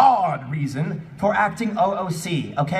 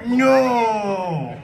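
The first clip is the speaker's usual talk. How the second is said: mock defiant shout; 5 semitones higher, 5 dB louder than usual. Sarah defying Mewtwo.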